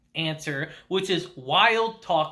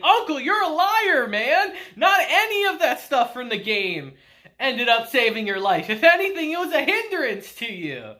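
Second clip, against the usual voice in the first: accusing outburst; 5 semitones higher than usual. Retold or imitated. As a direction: call him a liar, half laughing in disbelief. Takafumi calls out Uncle as liar.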